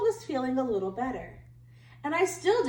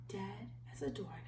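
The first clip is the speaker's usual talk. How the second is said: low, much softer aside; deadpan; 6 semitones lower, 17 dB quieter, faster than usual. A narrator's reading. Wolf noting the first pig's death in an aside. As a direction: drop it flat and quiet.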